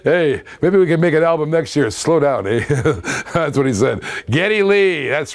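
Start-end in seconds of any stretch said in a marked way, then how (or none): 0.0-1.9 Bob and Doug quote. Retold or imitated. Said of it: "Christmas song they sang together".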